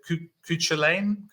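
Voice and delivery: Cuchulainn tried tentatively, with a questioning rise; unsure pronunciation. Real, not acted. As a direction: stumble into Cuchulainn, restarting the first syllable, then lift it like a question. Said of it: "I don't know how to pronounce it".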